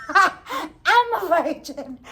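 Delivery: slow, stretched through laughter; laughing drawn-out repeat. Retold or imitated. Repeating her answer to the guy, slow and laughing. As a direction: crack up while dragging it out slowly.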